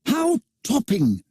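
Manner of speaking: put-on high, slow, delighted boyish exclamation; boys' delight. A narrator's reading. John and Michael marvel at Peter flying, delighted. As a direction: gasp it out like thrilled schoolboys. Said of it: "said John and Michael".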